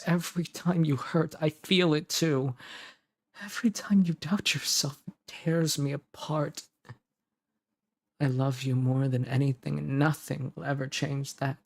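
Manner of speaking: hammed-up anguished romantic declaration; overacted devotion. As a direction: pour out heartache a bit too dramatically. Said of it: "I felt like I overacted there".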